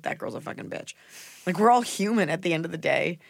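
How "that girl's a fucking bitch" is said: whispering a catty insult; hushed catty whisper. Retold or imitated. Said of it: "the first one to be like".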